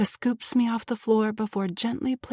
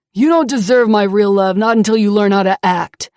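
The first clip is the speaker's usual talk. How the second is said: loud, contemptuous scolding; cruel berating; 9 dB louder than usual. Acted. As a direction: lash out with contempt. Abuser berating.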